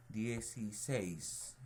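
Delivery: "Dieciséis" slowly sounded out, weight on "séis"; stress on last syllable. Shown as a demonstration. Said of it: "Aquí cargamos la voz".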